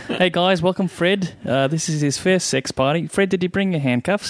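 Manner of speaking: high, lively mock Australian voice; Australian accent. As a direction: play Fred the Australian at a party. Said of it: "think of it as Fred the Australian".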